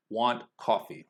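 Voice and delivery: two even beats, "Want" and "coffee"; beats on content words. Shown as a demonstration. Teacher picking out the important words, stressed beats. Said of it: "beats are gonna fall on the important words".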